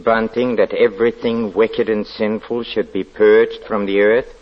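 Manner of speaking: zealous demand for agreement; fervent, menacing question; fanatic intensity. Acted. Lodger preaches purge of sin.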